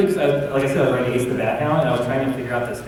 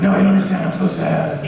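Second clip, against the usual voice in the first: Bruce Wayne; 7 semitones higher, 7 dB louder than usual. Acted. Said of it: "Bruce was sitting there".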